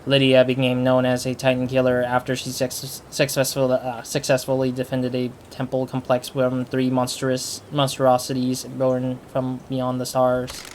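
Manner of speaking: deliberate monotone character-bio read. Real, not acted. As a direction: read it out in a level monotone, measured pace. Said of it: "I'm reading monotone-wise".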